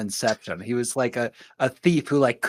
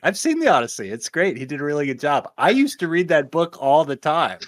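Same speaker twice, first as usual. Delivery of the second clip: mock Jonathan Nolan; 4 semitones higher than usual. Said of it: "a quote from Jonathan Nolan that was like".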